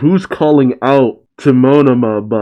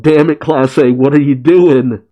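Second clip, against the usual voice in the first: mildly raised, exasperated quote; Monoma crying out; 3 semitones higher, 3 dB louder than usual. Retold or imitated. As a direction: act out a restrained outcry. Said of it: "Monoma's crying out".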